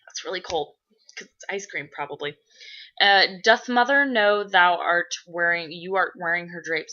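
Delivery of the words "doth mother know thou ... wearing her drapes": mock Shakespearean. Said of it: "This is not Shakespeare in the Park".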